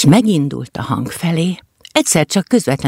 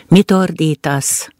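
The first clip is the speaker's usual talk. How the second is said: annoyed; slower than usual. Acted. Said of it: "szólt le bosszus hangon".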